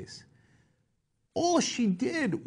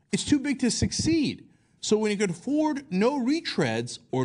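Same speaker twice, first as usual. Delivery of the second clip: Palin voice. Retold or imitated. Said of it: "let me not do the Palin voice".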